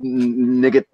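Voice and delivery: mock French accent from Monty Python; bad French accent. Friends joking on a call, doing a bad French taunt. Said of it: "get the accent completely wrong".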